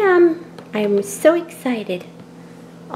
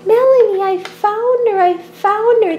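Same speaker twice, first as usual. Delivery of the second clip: excited discovery; 8 semitones higher than usual. Acted. Child finds her puppy.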